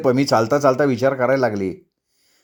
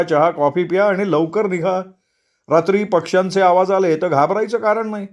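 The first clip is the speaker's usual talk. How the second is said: slightly higher, confident guide voice; reassuring tour leader; 4 semitones higher than usual. Acted. Tour leader calms the walkers and sends them off, reassuring. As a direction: brush away the group's fears.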